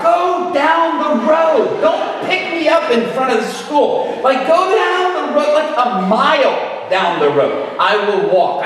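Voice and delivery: loud, high, slow frantic begging; embarrassed kid yelling at mom to park far away; pleading shout. Retold or imitated. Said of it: "I would tell my mom".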